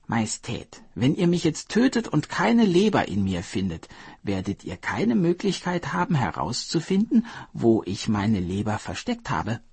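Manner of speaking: a hint of a cool, reasoning hare; calm hare retort. Hare calmly warning the king he'd lose the liver. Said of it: "entgegnete der Hase".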